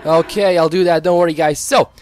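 worn-out hoarse voice; a tired, hoarse voice. Real, not acted. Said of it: "my voice is actually, um, just being shit again".

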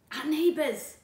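high, loud shout of glee; loud excited whoop; whooping yell. A narrator's reading. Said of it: "yelled Sam, with a whoop and a shout".

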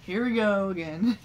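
breathy whispered aside. Retold or imitated. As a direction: hush it like a sigh. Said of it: "and they're just like".

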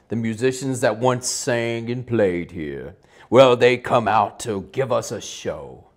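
spooky horror host voice; hammy haunted-house host; dark lord. Acted.

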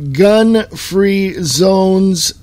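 each word spelled out slowly; slow emphatic. Real, not acted. Host breaking it down for listeners, slow and emphatic. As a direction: lay it down word by word. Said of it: "let me break it down for you".

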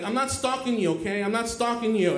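high, loud mock protest; screaming. Denying to the girl that he's stalking, screaming. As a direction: insist in a retold yell. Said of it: "I'm just, like, screaming at her".

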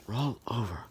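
firm "Roll over." as a command; strong command. Shown as a demonstration. Dad showing his son a strong command to the dog. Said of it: "say it like this".

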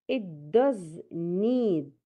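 very slow, with "does" drawn out; emphatic DOES. Shown as a demonstration. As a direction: lean on "does" in "it does need".

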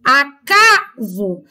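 "acaso" called out slowly, stretching and stressing CA; calling the word. Shown as a demonstration. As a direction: call "acaso" in broken syllables, a-CA-so. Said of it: "Chama a palavra".

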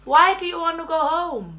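high, badly faked South African accent; botched South African accent. Colleague asking why she's leaving, botched South African accent. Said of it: "I think she was South African".

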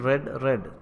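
റെഡ് said with a short "e", like the colour red; past-tense pronunciation. Shown as a demonstration. Teacher likening past-tense "read" to the colour, റെഡ് with short "e". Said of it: "ആ same പ്രൊനൗൺസിയേഷനാണ്".

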